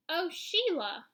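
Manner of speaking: high, loud annoyed call; exasperated shout. A narrator's reading. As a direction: shout it out, fed up. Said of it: "I shouted".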